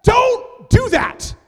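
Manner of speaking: high, slow, drawn-out inner yell; panicked inner shout. Retold or imitated. Pastor panicking inside as the friend spreads the prophecy, loud and high. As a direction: stretch out the alarm, loud and high.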